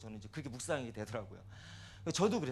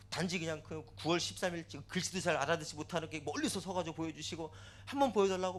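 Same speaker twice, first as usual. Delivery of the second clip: tearful begging; 3 semitones higher than usual. Retold or imitated. Grieving parent begs God to show the children, tearful plea. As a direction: imitate insistent, whining begging. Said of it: "막 울면서 이렇게 하나님께".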